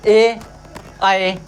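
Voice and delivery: एआई drawn out extremely slowly; very slow demo. Shown as a demonstration. Teacher sounding out एआई again for class. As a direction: hold एआई long. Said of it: "कंठ और तालु दोनों से मिलकर".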